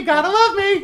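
deep voiced child. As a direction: pretend baby in a high voice. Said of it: "such a deep voice for a baby".

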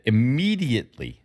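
immediately said with deliberate emphasis; stress on immediately. Real, not acted. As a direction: lean on the word immediately. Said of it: "I emphasize that word".

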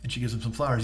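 usual speaking voice

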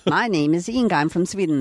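lightly put-on Swedish accent; Inga, Swedish accent. Actress repeating her film line, mock Swedish accent. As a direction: reprise a comic Swedish introduction.

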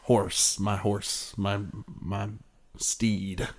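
lightly voiced wistful old cowboy; drawling cowboy musing at sunset. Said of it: "wistful cowboy thing".

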